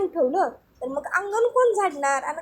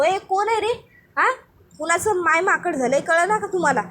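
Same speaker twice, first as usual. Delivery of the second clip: sharp, higher, irritated yelp at whoever splashed him; woken up angry; 4 semitones higher than usual. Acted. Bhanya woken by water, shouting at the culprit, irritated. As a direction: snap awake and demand who did it. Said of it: "भाण्या उठतो आणि म्हणतो".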